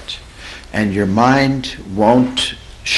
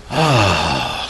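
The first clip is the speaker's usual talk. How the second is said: wordless sound; 5 semitones lower than usual. Shown as a demonstration. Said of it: "if I go like this".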